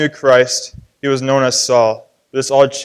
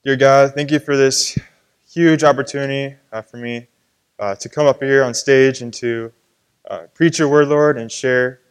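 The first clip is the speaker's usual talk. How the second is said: prayer. Acted. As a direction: pray it humbly, asking guidance. Prays before preaching.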